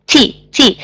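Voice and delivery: T puffed out with a burst of air; T, spit the air out; breathy T with a burst of air; aspirated T. Shown as a demonstration. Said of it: "it's coming out".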